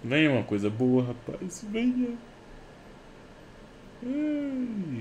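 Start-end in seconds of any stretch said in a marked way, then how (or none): 1.7-5.0 much higher, begging the case; pleading squeal. Real, not acted. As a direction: squeal for a good drop. Begging for a good drop.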